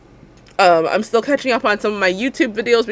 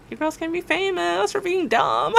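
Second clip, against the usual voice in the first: laughing; 10 semitones higher than usual. Real, not acted. Laughing at own joke.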